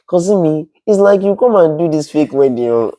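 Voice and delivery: mock Nigerian friend's voice, high and lively; a light take on the cousin's pleading; imitating Dami. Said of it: "this is how she talks".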